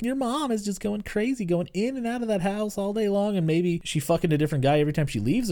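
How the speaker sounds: a hint of a frazzled mother; imitating mom. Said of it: "And she's like".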